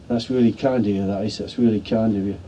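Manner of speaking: lightly imitated Cockney thanks; Cockney accent. Wounded soldier thanking his rescuer, in a light Cockney accent. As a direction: quote him with a hint of Cockney. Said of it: "in a Cockney accent".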